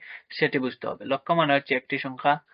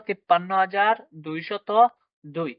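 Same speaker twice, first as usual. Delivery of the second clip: higher তিপ্পান্ন হাজার দুইশত, rising, pause, then দুই; number read-out demo; 4 semitones higher than usual. Shown as a demonstration. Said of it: "তাহলে কি উচ্চারণ হলো?".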